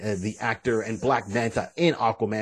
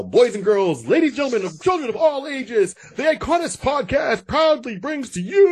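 booming circus ringmaster announcing; 10 semitones higher, 4 dB louder than usual. Acted. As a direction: announce it like a big top ringmaster. Podcast intro in announcer style.

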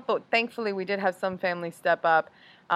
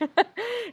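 nervous laugh. Retold or imitated. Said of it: "really a nervous laugh".

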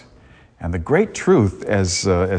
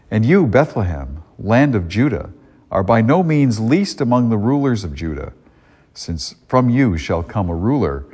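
solemn liturgical proclamation; Gospel reading. Acted. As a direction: read it like scripture at Mass.

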